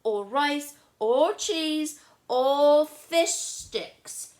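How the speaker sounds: high, loud stubborn list; picky girl listing foods she won't eat; fussy little sister. Acted. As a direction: rattle off everything she refuses. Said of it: "I do not eat".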